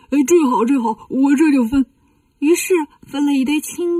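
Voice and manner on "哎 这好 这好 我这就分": eager, happy agreement with extra punch; delighted. Acted. Bajie learns he can share the luggage, delighted. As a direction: jump at the offer gladly. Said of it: "八戒一听高兴了".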